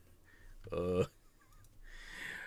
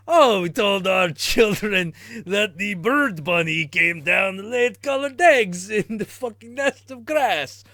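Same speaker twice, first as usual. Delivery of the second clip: put-on German accent; 6 dB louder than usual. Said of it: "come up with German accent".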